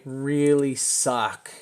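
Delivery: drawn out, each word leaned on; slow emphasis. Shown as a demonstration. Slowly stressing to chart viewers how bad it is. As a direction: say it slowly so it lands. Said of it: "Let me say it slower for you".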